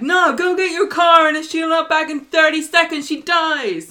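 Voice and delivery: loud, high, ranting ultimatum; acted-out ranting demand; mock villain threat. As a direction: shout the threat like a soap villain. Acting hostage taker's threat.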